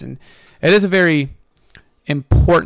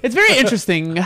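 put-on Valley Girl accent; 8 semitones higher than usual. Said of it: "I have to say it in a Valley Girl accent".

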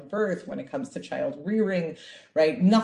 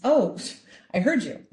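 put-on a touch of a whiny child; a light hint of a caught child; childish excuse; 4 semitones higher, 4 dB louder than usual. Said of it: "Such a, you know, child response".

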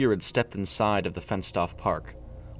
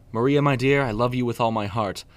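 wavering tone; 3 semitones higher, 4 dB louder than usual. Acted. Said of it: "Preston said in a wavering tone".

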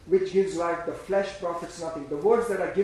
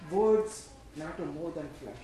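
"Words matter more than flesh" slow, low and deliberate; emphatic repeat; 5 semitones lower than usual. Real, not acted. Preacher driving the point home, "Words matter more than flesh" slow and emphatic.

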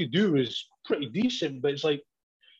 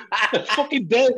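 real laughter bursting through, high and loud, slowed; laughing; 8 semitones higher, 5 dB louder than usual. Real, not acted. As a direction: laugh it out, helpless with it. Cracking up at own story.

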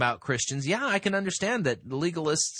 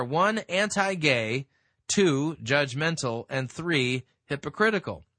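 higher, measured article reading; reading aloud; 4 semitones higher than usual. Acted. Host reading the article on Christians' image, read-aloud voice. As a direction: read it out point by point.

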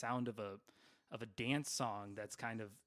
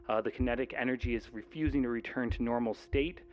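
muffled helmet voice; 7 dB louder than usual. Acted. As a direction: read it out like a report through a mask. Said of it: "It feels like maybe they're muffled".

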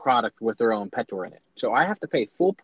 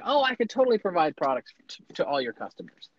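overselling; 6 semitones higher than usual. Retold or imitated. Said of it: "I'm overselling".

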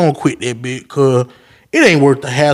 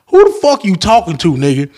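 angry retort; 3 semitones higher than usual. Retold or imitated. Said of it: "I was like".

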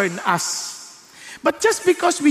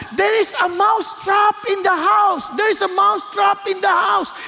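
mouse screaming; 8 semitones higher than usual. Acted. The mouse warning the farm animals, panicked high shout. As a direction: cry the warning out to the whole house. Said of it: "Kaya nagsisigaw siya".

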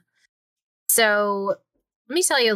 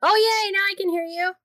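excited relief; 12 semitones higher than usual. Real, not acted. Audio finally works again.

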